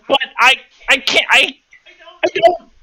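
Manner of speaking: high, fast deflated whine. Acted. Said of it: "Lisk visibly deflates and says".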